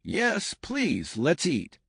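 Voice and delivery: put-on a nervous guest's first try at a northern accent; nervous northern accent attempt. Nervous guest tries a northern accent for his host. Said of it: "in his best attempt at a northern accent".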